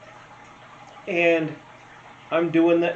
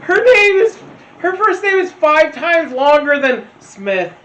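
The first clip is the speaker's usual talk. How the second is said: much higher and louder, laughing disbelief; incredulous outburst; 10 dB louder than usual. Real, not acted. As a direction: burst out in disbelief at the name. Disbelief at the absurd name.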